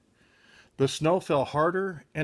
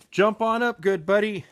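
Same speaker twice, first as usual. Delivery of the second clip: cheery call; 5 semitones higher than usual. Acted. Shaggy calling his pal on.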